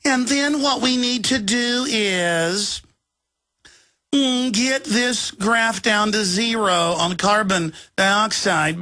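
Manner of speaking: yuppie voice. Retold or imitated. Host mocking a tech billionaire's talk, light yuppie voice. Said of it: "in that little, uh, yuppie voice".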